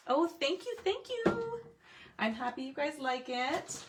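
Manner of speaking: high, pleased thank-you to fans; delighted thanks. Real, not acted. Thanking viewers for their praise.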